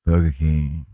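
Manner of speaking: low, slow ad-voice "Burger King"; deep announcer Burger King. Shown as a demonstration. Co-host tries the ad voice, "Burger King" low and drawn. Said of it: "Didn't sound so good for me".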